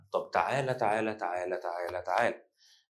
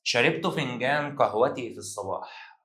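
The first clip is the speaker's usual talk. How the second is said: slow example reading; slower than usual. Shown as a demonstration. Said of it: "طب تعال".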